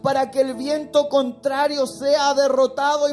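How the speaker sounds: rising into loud preaching. Acted. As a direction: build up the sermon's climax. Preaching builds to full force.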